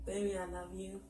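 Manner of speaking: soft sincere love declaration; heartfelt. Real, not acted. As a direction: speak softly from the heart. Wife's heartfelt message to husband.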